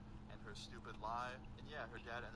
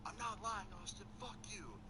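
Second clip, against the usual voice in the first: tearful angry denial; 9 semitones higher than usual. Retold or imitated. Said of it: "she had tears rolling down her face".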